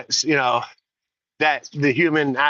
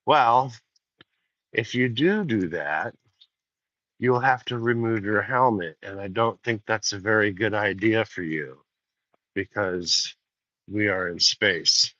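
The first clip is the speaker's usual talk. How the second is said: softer, understated Hal warning; a hint of a cool machine, slowly dropping; calm, quiet computer voice; 3 semitones lower than usual. Hal warning the astronaut about removing his helmet, calm and soft. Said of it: "Hal nine thousand says".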